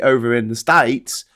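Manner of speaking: slipping briefly into Australian; lightly Australian-accented aside; accidental Australian accent. Real, not acted. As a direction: let an unplanned Australian twang creep in. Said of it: "said that in an Australian accent".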